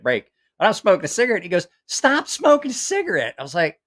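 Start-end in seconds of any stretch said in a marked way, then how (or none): 1.9-3.4 high-pitched scolding order; mock a scolding, pitch jumping up; retold reprimand. Instructor reprimands him in retold story.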